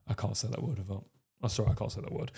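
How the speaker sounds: whispered, a little sheepish; embarrassed whisper. Real, not acted. A man too shy to say the word to his viewers, whispering. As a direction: drop to a real whisper, ducking the word. Embarrassed about saying aroused.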